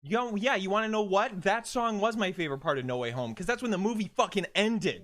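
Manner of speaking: heated, emphatic rant; fired-up defence of a favourite; passionate. Real, not acted. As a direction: argue it with real passion. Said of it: "just passionately speaking".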